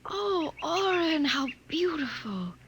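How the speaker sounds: slow, choked awe; overwhelmed by beauty; a catch of crying joy; tearful wonder. Acted. Waking to see the light.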